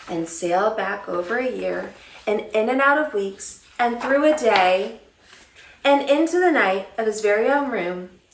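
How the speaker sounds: put-on lively read-aloud for young children; storybook reading. A narrator's reading. Teacher reading a picture book to children, animated. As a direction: read the story to kids with expression.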